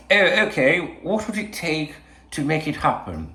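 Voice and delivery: a hint of a Saudi accent asking the price; mock Saudi accent. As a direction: play a Saudi buyer in a hammed-up accent. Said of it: "I was gonna do a Saudi accent".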